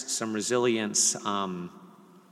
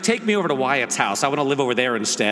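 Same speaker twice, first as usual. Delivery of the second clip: son's demand; 4 semitones higher, 6 dB louder than usual. Retold or imitated. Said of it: "he's like".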